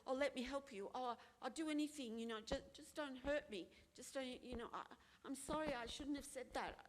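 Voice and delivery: mild imitation of a frightened people-pleaser; fawning apology. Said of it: "some people go".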